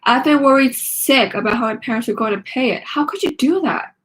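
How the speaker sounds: upset and accusing; angry. Acted. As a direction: demand an answer, hurt. Nikki angry at Mackenzie.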